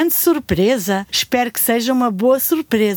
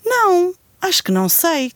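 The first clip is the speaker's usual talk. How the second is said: whispering; 5 semitones higher than usual. Acted. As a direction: whisper it, puzzled. Unsure answer, whispered.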